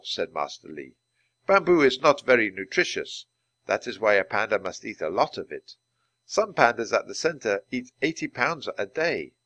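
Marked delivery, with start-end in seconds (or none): 1.5-9.3 lightly voiced calm keeper, a touch louder; a hint of a steady zookeeper; patient keeper. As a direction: explain it plainly like a kind teacher. Keeper character voice.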